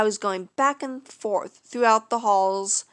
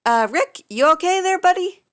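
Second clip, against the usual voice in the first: raised, worried call; calling out loud; 8 semitones higher, 7 dB louder than usual. Acted. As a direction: call out to him, concerned. Checking on fallen patient.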